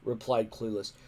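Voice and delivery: lightly voiced cocky young Viking; boastful boy. A narrator's reading. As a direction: show off like a know-it-all kid.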